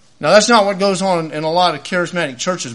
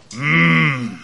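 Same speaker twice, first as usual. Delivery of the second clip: mock Mennonite amen hum; 5 semitones lower than usual. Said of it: "you go".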